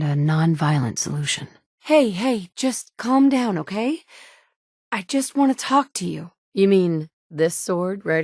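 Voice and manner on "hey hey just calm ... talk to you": higher, gentle soothing voice; raised soothing plea to calm down. Acted. Calming a frightened person.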